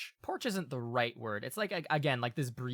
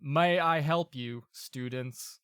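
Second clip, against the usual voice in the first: slow, measured golem voice, opening louder; clockwork golem; 3 semitones higher, 6 dB louder, slower than usual. Acted. Golem offering help to the students, slow and formal voice. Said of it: "and it will go".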